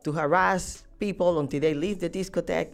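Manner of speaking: high, loud exasperated comeback; frustrated retort. Retold or imitated. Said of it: "And I grew frustrated".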